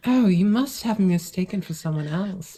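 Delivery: lightly voiced seductress; sultry villain. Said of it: "Bayonetta voice".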